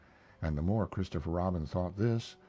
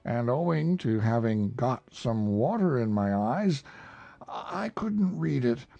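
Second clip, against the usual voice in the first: proud bear; 9 semitones higher, 3 dB louder than usual. Acted. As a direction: puff up like a pleased bear. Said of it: "With these proud words".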